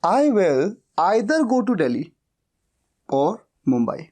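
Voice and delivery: very slow, each word spelled out for students; slow dictation. Shown as a demonstration. Teacher slowly dictating the English sentence to learners. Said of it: "मैं या तो दिल्ली जाऊंगा या मुंबई".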